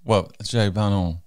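slow, loud, drawn-out Frenchified name; mock French accent. Co-host says the guest's name in a mock French accent. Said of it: "say your voice in a French accent".

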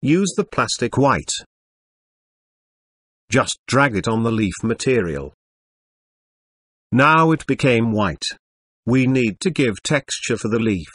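robotic text-to-speech computer voice. Acted. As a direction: read it like an old speech synthesizer. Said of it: "sorry for the computer voice".

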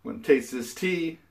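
brighter, livelier retake; upbeat. Shown as a demonstration. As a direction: say it with fresh energy. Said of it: "cut, start".

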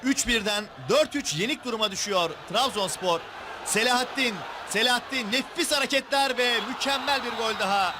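shouting the goal, voice racing ahead; screaming football commentator. Real, not acted. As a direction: yell the scorer's name as the goal lands. Equaliser goal, commentator erupts.

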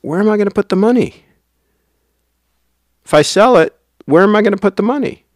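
high, quick, worried self-quote; fretting inner voice. Retold or imitated. Replaying his own worry about selling, high and quick. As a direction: ask yourself anxiously, fast and high. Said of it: "but I'm like".

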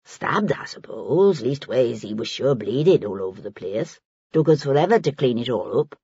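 put-on offhand old woman in dialect; a hint of earthy indifference; lightly voiced Maggie. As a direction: shrug it off in a working woman's dialect. Narrator voices Maggie, offhand about death.

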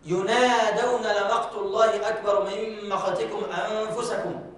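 slow recitation with a light ghunna on ينادون; slow Quranic recitation, light nasal sound; slow tajweed recitation. Shown as a demonstration. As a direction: recite slowly, giving the voweled nun a faint nasal hum. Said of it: "النون المفتوحة أو النون المحركة فيها غنة".

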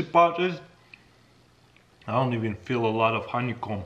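talking between bites; chewing while talking. Real, not acted. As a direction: mouth partly full. Seen 2: Knife with honeycomb in hand, lips pursed mid-chew between words.

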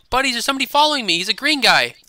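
rushed alarm to the viewers; panicked. Real, not acted. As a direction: blurt it out as the chaser closes in. Being chased in game.

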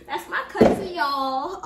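loud, high proud laughing announcement; proud boast. Real, not acted. Author's cousin showing viewers the book, proud and loud. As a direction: show off loudly, laughing.

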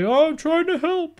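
high, loud mock whine of protest; Aiden English protesting. Acted protest of wrestler retold.

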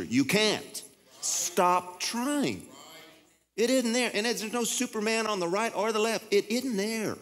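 preacher lifting his voice to jolt the flock; revved-up preaching. Real, not acted. Pastor to congregation, preaching at full force. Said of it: "I'm getting revved up here".

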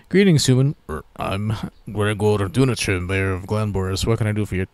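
a hint of gruff dwarven officialdom; lightly voiced dwarf mayor. Mayor of Glenboris greets a human visitor, lightly in character.

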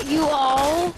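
"all" hit loud in place of are; mock the speech, "are" turned into "all"; mimicking "are" as "all". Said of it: "Why do you say all?".

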